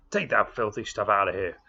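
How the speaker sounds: angry Texas cowboy yelling from the crate; Texas cowboy shout. Acted. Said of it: "he suddenly shouted in his strong Texas accent".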